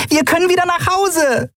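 high, joyful cheer; rejoicing at going home at last; jubilant. Acted. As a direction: cheer it out with pure joy. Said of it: "jubelte sie".

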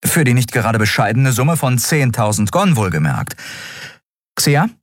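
high, brisk captain's voice; Endriel, posing the choice. Acted. Captain asking the crew to turn back or help, high and decisive.

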